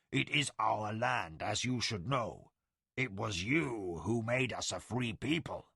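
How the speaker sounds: defiant, holding back a growl; snarling tiger warrior. Acted.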